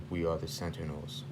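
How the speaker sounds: lightly voiced robot, a little low; a hint of a deep, measured machine; robotic deep voice. Robots announcing themselves to Colossus, lightly robotic deep voice. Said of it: "then just this robotic, deep voice".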